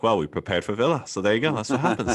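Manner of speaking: put-on light French accent as Mourinho, barely shifted; a hint of a French-accented manager shrugging it off. Podcaster imitating Mourinho's excuse after a loss, light French accent. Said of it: "It's a good French accent".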